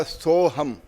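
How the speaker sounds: सोहम said slowly and deliberately; slow demonstration. Shown as a demonstration. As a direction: draw out सोहम as a mantra. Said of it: "और उल्टा बोलोगे तो क्या बोलेगा". (धीरे से सोहम बोलना)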